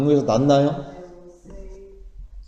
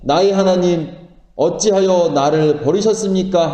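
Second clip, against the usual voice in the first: restrained recited lament; imitated crying out; 2 semitones higher than usual. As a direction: call out in solemn appeal, only slightly raised. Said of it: "예수님도 하나님께 이렇게 외치셨습니다".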